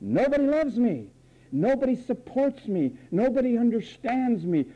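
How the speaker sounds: lightly voiced high whine; mock whine. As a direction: whine it like a spoiled child. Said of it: "who says".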